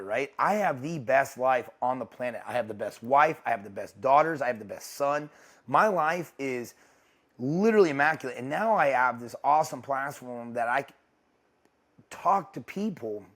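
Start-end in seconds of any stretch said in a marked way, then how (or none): 5.7-13.2 choked up. Real, not acted. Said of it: "Dang, I'm getting choked up talking about this".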